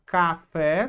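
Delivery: café with the final FÉ stressed and lengthened; stress on last syllable. Shown as a demonstration. Teacher giving an example, café stressed on FÉ. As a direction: lean on the FÉ of café. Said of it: "que é a última".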